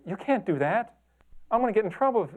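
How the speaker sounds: high, loud worried protest; plead, frightened of getting in trouble; panicked aunt. Retold or imitated. Aunt angrily calls about photo.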